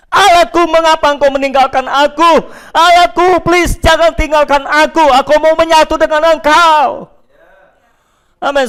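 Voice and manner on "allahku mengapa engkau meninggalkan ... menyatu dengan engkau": raised pleading cry; crying out to God. Acted. Preacher voices a believer calling out to a distant God, with a raised plea. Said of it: "engkau teriak".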